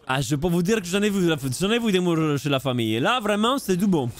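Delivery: playful, rough attempt at a Portuguese accent; mock Portuguese accent. Caster joking about Portuguese blood, mock Portuguese accent. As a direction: put on a jokey Portuguese accent. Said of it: "Je fais l'accent portugais".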